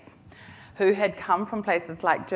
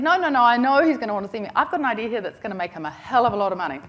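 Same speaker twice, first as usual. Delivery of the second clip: confident insistence; 3 semitones higher, 6 dB louder, faster than usual. Retold or imitated. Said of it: "my first un-New Zealand thing to do".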